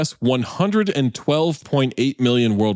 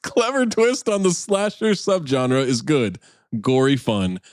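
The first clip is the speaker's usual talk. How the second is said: reviewer voice. Pretend. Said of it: "That's the best voice you've ever done".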